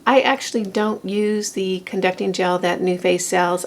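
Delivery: first words of the morning, still husky. Real, not acted. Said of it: "I'm gonna have my morning voice on".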